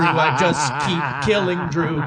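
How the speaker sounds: slow, laughing through the words. Real, not acted. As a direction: laugh while saying it. Repeats the line while laughing.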